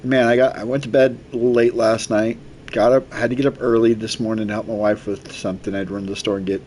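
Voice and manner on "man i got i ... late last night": words stretched by a yawn; talking through yawn. Real, not acted. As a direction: speak mid-yawn, tired. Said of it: "Sorry, I'm yawning so much".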